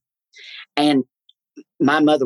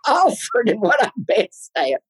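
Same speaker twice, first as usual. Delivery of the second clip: half-laughing indignant reply; exasperated protest; 11 semitones higher than usual. Retold or imitated. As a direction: cry out in mock outrage, pitched high. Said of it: "And I said".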